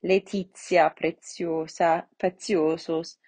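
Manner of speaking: "Letizia, Preziosa, Preziosos" with ts before each i; measured Latin "Letizia, Preziosa, Preziosos", TI as tsee. Shown as a demonstration. Teacher repeating TI examples, "Letizia, Preziosa, Preziosos" with tsee. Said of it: "it is pronounced si".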